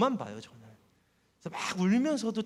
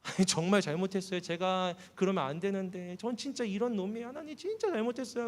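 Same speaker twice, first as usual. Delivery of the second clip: pleading prayer; 3 semitones higher than usual. Retold or imitated. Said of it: "속으로 기도하고 말 거는데".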